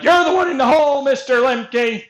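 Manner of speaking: lightly mocking jeer; mocking quote. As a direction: taunt like a smug opponent. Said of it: "'Cause they're like".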